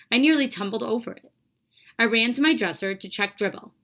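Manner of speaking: expressive read-aloud of a novel; story reading. A narrator's reading. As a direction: read the story to the class with feeling. Teacher reads novel aloud.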